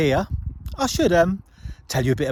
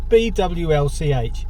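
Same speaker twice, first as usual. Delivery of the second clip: spelling out letters; 3 semitones higher, 4 dB louder, slower than usual. Shown as a demonstration. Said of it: "we can't pronounce the name of".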